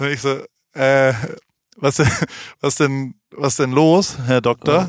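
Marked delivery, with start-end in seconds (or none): none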